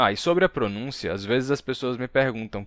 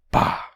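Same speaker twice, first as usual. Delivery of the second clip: slap sound effect; 3 dB louder than usual. Acted. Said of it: "Et Marcus Iuliam pulsat".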